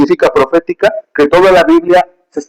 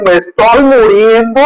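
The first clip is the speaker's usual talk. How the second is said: dying cry; 7 semitones higher than usual. Retold or imitated. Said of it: "gritar tan fuerte".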